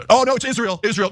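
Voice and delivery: lightly mocking voice; mock shock. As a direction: fake a scandalised anchor.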